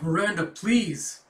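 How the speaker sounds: high, loud, slow begging; desperate plea. Acted. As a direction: plead with her, drawn out and desperate. Governor begging his sister.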